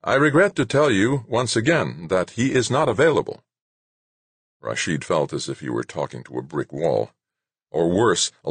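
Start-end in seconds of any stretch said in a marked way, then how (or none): 0.0-3.4 gentle polite. A narrator's reading. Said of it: "smiled gently and said".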